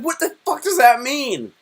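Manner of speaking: a date who has had enough; imitating the baffled date. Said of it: "She's like".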